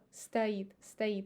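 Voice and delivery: стоит said stait, slowly; стоит pronounced stait; reduced o. Shown as a demonstration. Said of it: "with a".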